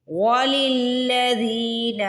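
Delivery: وَلِلَّذِينَ with the lams joined, ذي stretched; slow وَلِلَّذِينَ, lam merged into lam. Shown as a demonstration. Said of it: "لام کو لام سے ملائیں گے". (وَلِلَّذِينَ میں لام کو لام سے ملا کر)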